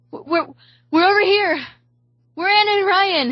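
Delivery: high, urgent shout for rescuers; stammer, then shout to be found; calling out. A narrator's reading.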